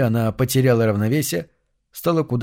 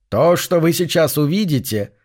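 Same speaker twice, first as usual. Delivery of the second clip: eerie announcer voice; 4 semitones higher than usual. Acted. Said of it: "постепенно приобретал уверенность".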